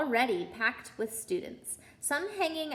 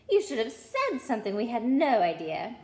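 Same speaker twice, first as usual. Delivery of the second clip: mock surprise; 4 dB louder than usual. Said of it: "with an air of great surprise".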